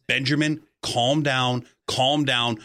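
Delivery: imitating a calm principal, measured with pauses; lightly acted composure, talking a child down. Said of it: "with a very calm voice saying".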